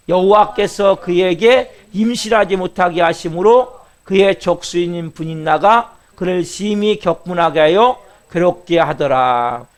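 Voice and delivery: slow, drawn-out unison reading; scripture reading. Shown as a demonstration. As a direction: read each phrase slowly and evenly with the church. Leads scripture reading again.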